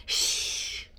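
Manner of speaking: sharp hush; shushing. A narrator's reading. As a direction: hush him quickly. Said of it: "Grandpa hushed him".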